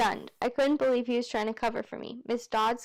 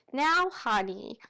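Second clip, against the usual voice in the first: slow Georgia drawl; much slower than usual. Acted. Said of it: "supposed to have a Georgia accent".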